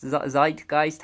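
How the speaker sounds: stumble, then say 'Zeitgeist' rhyming first syllable with 'kite'; slow retry of Zeitgeist as ZITE-gyste; first vowel of 'Zeitgeist' as in 'eye', after a false start; 'Zeitgeist' with a long i. Shown as a demonstration. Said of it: "however you pronounce it".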